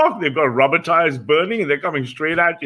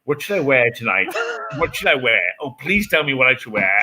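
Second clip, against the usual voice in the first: mock fretting. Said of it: "You're like".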